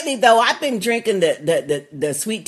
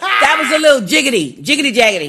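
laughing; 2 semitones higher, faster than usual. Real, not acted. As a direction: chuckle through the silly words. Laughing at a jumpy episode.

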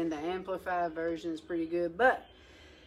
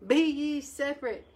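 mild preaching quote; 3 semitones higher, 3 dB louder than usual. Retold or imitated. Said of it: "Nehemiah says".

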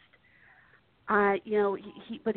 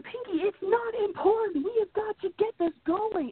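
lightly voiced, higher, impatient cartoon brain; 10 semitones higher than usual. Retelling the cartoon, a hint of impatient Brain. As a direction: brush him off, a hint of a frantic genius. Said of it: "Brain is, of course, going".

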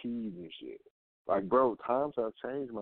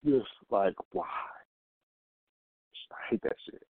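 ordinary talk, nothing marked

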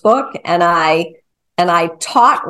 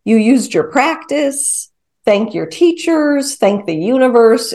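self-praise; 2 semitones higher than usual. Shown as a demonstration. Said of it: "for me, it's".

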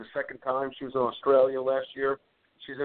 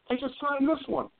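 retold exasperated wrestler; 11 semitones higher than usual. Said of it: "He goes".

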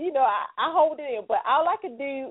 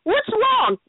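caring question; 10 semitones higher, 4 dB louder than usual. Retold or imitated. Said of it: "What's wrong is the, the deal breaker".

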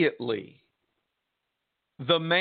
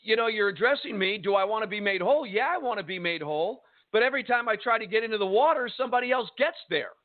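quick, higher-pitched frustrated complaint; 4 semitones higher, faster than usual. Acted. Sick man explains to Jesus why he stays unhealed, frustrated. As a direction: voice the sick man's mounting exasperation, easing at the end. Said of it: "the frustration in this man's voice".

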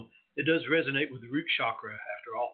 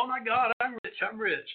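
much higher, thrilled cry over the find; mock excitement; 9 semitones higher than usual. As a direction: squeal like a miner striking it rich. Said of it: "People would dig it up and go".

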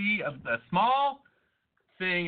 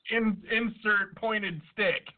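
slow deadpan; 4 semitones higher, much slower than usual. Pretend. Joke punchline on abortion.

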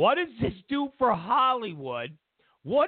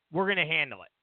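gangster; 6 semitones lower, much faster than usual. Retold or imitated. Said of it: "Like gangsters".

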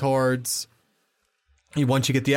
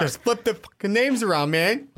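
mocking voice; 8 semitones higher than usual. Continues mocking voice.

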